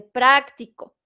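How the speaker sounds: "práctico" with stress on the first syllable, PRÁC; stress on PRA. Shown as a demonstration. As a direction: stretch and hit PRÁC in "práctico". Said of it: "tiene la sílaba tónica en pra".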